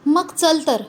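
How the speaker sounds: mild roar. Acted. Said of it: "सावळा गरजला".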